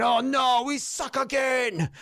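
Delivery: mock the team like a simple, whimpering Bobby Boucher; Waterboy impression. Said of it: "It's, it's like the Waterboy".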